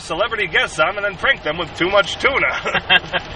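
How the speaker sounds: hammed-up morning show host; radio DJ voice. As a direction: pitch it like a cheesy radio host. Spoof radio show hosts.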